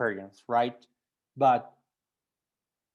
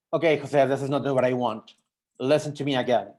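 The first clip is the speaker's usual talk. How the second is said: rude chef; 5 dB louder than usual. Retold or imitated. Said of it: "really rude".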